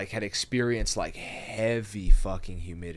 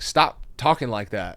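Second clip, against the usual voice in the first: slower, louder mock-annoyed telling-off; mock pissed off; 6 dB louder, slower than usual. Guys in his unit telling him off for doing accents, mock pissed off. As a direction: imitate fed-up buddies, half laughing. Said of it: "They were pissed off".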